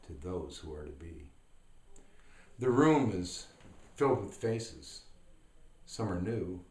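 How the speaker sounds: measured reading, pausing between short lines; poem recitation. Acted.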